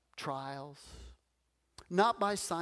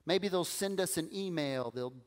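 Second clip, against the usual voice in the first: earnest spoken prayer; faster than usual. Real, not acted. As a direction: pray aloud to God, sincerely. Leads closing prayer.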